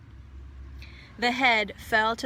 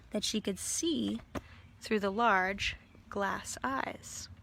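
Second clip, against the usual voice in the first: soft, slow whisper; whispered wonder; hushed whisper; 6 dB quieter than usual. A narrator's reading. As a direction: draw listeners in with a whisper. Hushed reading of discovery.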